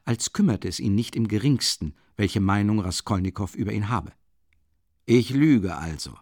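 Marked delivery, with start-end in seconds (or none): 5.1-6.2 mock musing. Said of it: "lustige und spöttische Aussehen".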